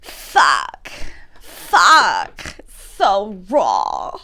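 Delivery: attempted Ambi voice. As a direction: bark it out trying to copy Ambi. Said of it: "I can't do Ambi's voice".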